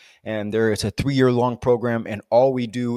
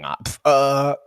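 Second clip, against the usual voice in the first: flustered answer; 2 semitones higher, 5 dB louder, slower than usual. Retold or imitated. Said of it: "I'm like".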